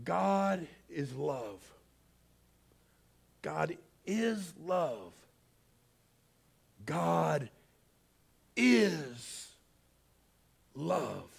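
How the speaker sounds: hushed, spaced-out repeat of a haunting phrase; soft wondering echo. Retold or imitated. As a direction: let the words sink in quietly. Words echoing inside the man.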